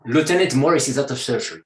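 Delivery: the whole line in a light French accent; "Lieutenant Morris is out of surgery" with French vowels throughout. Shown as a demonstration. Actor on Jag hanging up a phone, light French accent. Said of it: "with my French accent".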